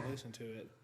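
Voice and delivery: breathy whisper. Real, not acted. Quiet aside while spooked.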